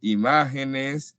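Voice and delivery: "imágenes" slowly, stress on the syllable MÁ. Shown as a demonstration. Teacher spelling out "imágenes" slowly to show the stressed syllable. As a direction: stretch "imágenes", weight on MÁ. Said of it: "lleva tilde".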